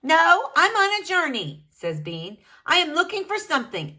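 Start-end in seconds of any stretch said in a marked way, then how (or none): 0.0-1.7 Bean voice. Acted. Bean character voice, excited. 2.6-4.0 Bean voice. Acted. Bean character, fast then whispered.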